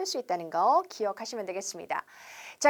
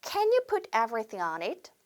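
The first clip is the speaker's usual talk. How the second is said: very slow rising question, stress on you; slow model question; much slower than usual. Shown as a demonstration. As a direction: model the request slowly for repeating. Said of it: "따라해볼게요". (천천히 끝을 올리는 시범 질문)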